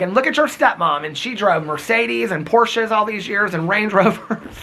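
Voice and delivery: a hint of his mother comparing herself to the stepmom; imitating mom. Mom talks about the stepmom's cars. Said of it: "And she's like".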